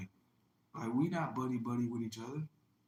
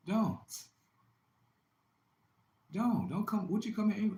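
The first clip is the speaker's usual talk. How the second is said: angry high shout; 10 semitones higher, 3 dB louder than usual. Real, not acted. Scolding angry visitors.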